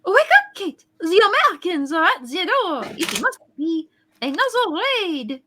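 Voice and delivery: urgent shout. Acted. Alarm at the door.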